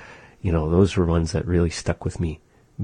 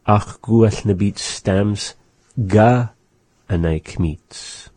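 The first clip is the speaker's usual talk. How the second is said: slow model sentence. Shown as a demonstration. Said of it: "let's go over together".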